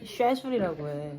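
쉐줄 said like British shedule; British pronunciation. Shown as a demonstration. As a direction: stress the British sound of 쉐줄. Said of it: "영국인들은 스케줄이라고 안 해". (쉐줄을 영국식 발음으로)

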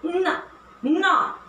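न, न said as a clear, held n sound. Shown as a demonstration. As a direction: model the letter sound न for the class. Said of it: "एन alphabet का sound है न".

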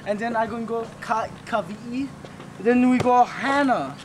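light Hawaiian pidgin lilt; Hawaiian pidgin accent. Shown as a demonstration. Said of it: "practicing my Hawaiian voice".

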